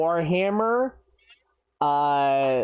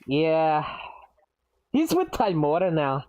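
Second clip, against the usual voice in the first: lightly voiced Scottish dwarf; understated put-on Scottish accent. Dwarf answers condolences about his father, light Scottish accent. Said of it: "I don't know why I'm doing this accent".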